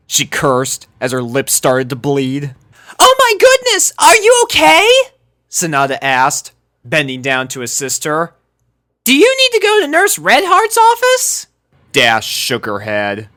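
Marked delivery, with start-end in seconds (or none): 3.0-4.9 put-on sweet concerned girl. A narrator's reading. Sanada checks on the injured Dash in a very high voice. 9.0-11.5 put-on sweet concerned girl. A narrator's reading. Sanada checks on the injured Dash in a very high voice.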